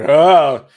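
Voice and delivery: startled "ah". Retold or imitated. Acts out his startled reaction.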